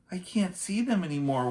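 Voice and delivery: wailing. A narrator's reading. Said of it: "wailed Annie".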